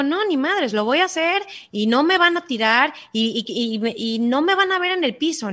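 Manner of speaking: mock determined inner voice; defiant vow. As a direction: refuse to be knocked down.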